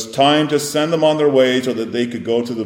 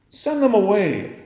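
higher, scornful mimic of the disciples; mock their impatience, pitched up; mock rude demand; 11 semitones higher, 3 dB louder than usual. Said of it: "Is this your sense of showing compassion?".

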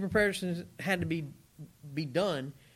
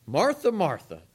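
"Martha, Martha" called louder, like a mom about to scold; a mock mom calling her kid in by name; 7 dB louder than usual. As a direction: call "Martha, Martha" like a mother whose child is in trouble. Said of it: "Sounds like your mom".

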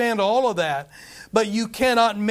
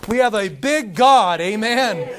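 big God said louder, with full preaching force; a louder, surer restatement; louder, stronger repeat; 5 dB louder than usual. Real, not acted. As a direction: push it out louder the second time.

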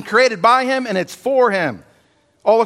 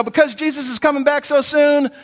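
imagined Peter, mock; 6 semitones higher than usual. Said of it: "you might expect Peter to say".

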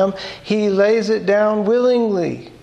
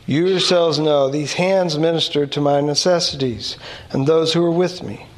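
quick, low-pitched Bible reading; scripture reading; 4 semitones lower, faster than usual. Acted. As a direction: read the verses aloud briskly and evenly. Reads scripture aloud.

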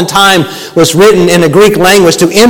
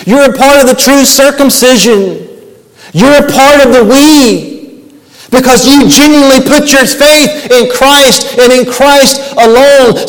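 reassuring Paul; 4 semitones higher than usual. Retold or imitated. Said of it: "reminding them once again".

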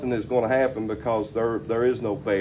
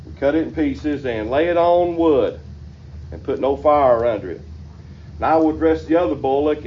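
raised, fervent preaching read of the verse; scripture reading; 3 semitones higher than usual. Acted. Preacher reads the verse to his congregation, fervent. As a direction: proclaim the Bible text to the congregation.

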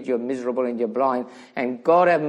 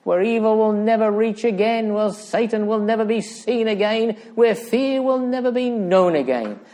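exalted preaching; 2 semitones higher than usual. Real, not acted. Preacher proclaiming the blessed and glorious day, exalted preaching. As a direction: build to a soaring peak and come down gently.

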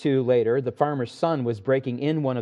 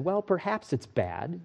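calm farmer; 7 dB quieter than usual. Acted. Wise farmer replies calmly.

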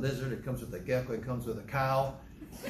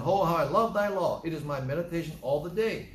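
loud, higher-pitched enthusiastic declaration; with enthusiasm; 3 semitones higher, 3 dB louder than usual. Shown as a demonstration. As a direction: proclaim it with delight. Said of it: "He says with enthusiasm".

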